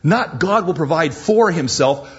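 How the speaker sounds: preaching stress on FOR. Shown as a demonstration. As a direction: hit FOR hard to show the error. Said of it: "Makes a big difference".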